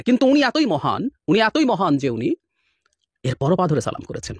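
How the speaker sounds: mock praise, dripping with irony; sarcastic. Real, not acted. Mocking Hasina's claimed greatness.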